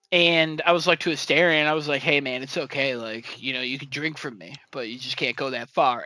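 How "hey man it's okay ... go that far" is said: low, soft, easygoing reassurance; mock reassurance. Player telling Astarion he can drink, soft reassurance. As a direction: let him down gently, voice dropped. Reassuring the vampire who killed her.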